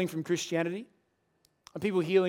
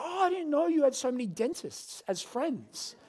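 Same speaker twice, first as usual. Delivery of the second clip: sarcastic dentist; 6 semitones higher, 3 dB quieter, slower than usual. Retold or imitated. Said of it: "And she's like".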